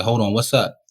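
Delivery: squaring up, street tone; a mild Rochester challenge; confrontational challenge. Retold or imitated. Confronting the roommate's friends with a light street edge. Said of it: "that inner city Rochester came out".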